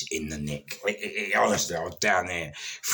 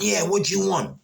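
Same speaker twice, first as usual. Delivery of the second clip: loud; 14 semitones higher, 5 dB louder than usual. Retold or imitated. Own retold reply through door.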